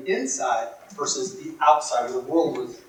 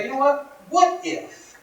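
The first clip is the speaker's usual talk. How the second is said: inner voice; 11 semitones higher, slower than usual. Retold or imitated. Man daring himself in thought.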